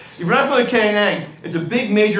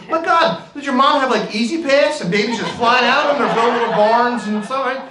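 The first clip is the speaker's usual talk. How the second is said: mock amazement; 5 semitones higher than usual. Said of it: "And I go".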